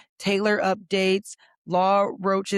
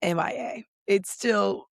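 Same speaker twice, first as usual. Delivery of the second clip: lost voice, slow and rough; hoarse voice; slower than usual. Real, not acted. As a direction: croak through a worn-out voice. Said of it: "my voice is still M I A".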